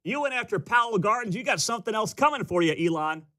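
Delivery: high-pitched, hammed-up indignant threat; mock outrage. Host as outraged supporter warning Elon, mock outrage.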